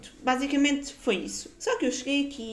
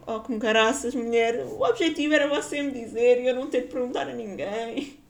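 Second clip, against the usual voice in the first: mock exasperation; 2 semitones higher, 4 dB louder than usual. Acted exasperated retort to landlady.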